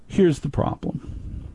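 hushed conspiratorial whisper. Acted. Father confiding his dating dilemma to listeners, whispered. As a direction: lean in and whisper the problem.

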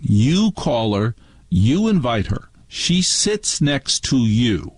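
slow, pointed parental ultimatum; mother's stern ultimatum. Retold or imitated. Mother to child about inviting Martha, stern ultimatum. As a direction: lay down terms, stressing each word slowly.

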